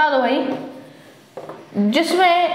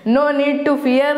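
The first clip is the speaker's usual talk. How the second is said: quoting a comment slowly; 2 semitones higher, much slower than usual. Retold or imitated. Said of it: "याद आ गया मुझे".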